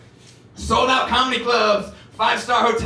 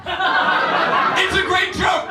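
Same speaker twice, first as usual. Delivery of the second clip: mock praise; 12 semitones higher, much slower than usual. Mock defending kid's joke.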